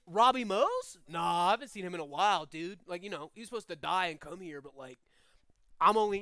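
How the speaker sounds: casual surfer-dude demon, loud at first; quick, lightly voiced dude chatter; Crush from Finding Nemo. Demon answering about a missing man, casual surfer dude. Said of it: "sound like Crush from Finding Nemo".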